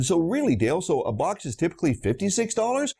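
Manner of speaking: rising question tune on dollars, sounding unsure; voice going up. Retold or imitated. Probing the supplier about the box price, rising unsure tune. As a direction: let the pitch climb as if you don't know. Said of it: "And I made my voice go up".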